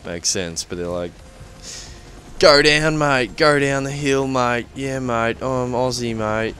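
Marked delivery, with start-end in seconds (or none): 2.4-6.5 hammed-up Aussie bloke, louder at the start; imitating an exaggerated Australian drawl; lampooning the Aussie voice in the game, mock Australian; mock Aussie accent. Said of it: "that's what we all talk like".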